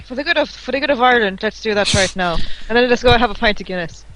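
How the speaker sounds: put-on Irish accent. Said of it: "Worst Irish accents ever".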